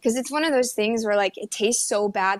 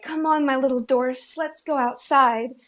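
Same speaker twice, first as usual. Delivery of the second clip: Disney princess; 4 semitones higher than usual. Retold or imitated. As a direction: call the dwarfs like a princess. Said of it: "Anya is truly a Disney princess".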